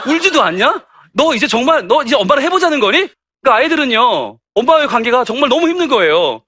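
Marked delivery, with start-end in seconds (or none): 0.1-3.1 higher-pitched, lightly acted telling-off; imitated exasperated parent; mock affronted mother. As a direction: challenge the child as an offended mum. Acted mother challenging the child.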